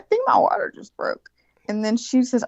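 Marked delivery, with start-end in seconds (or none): 0.0-1.3 tag. Retold or imitated. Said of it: "I was like".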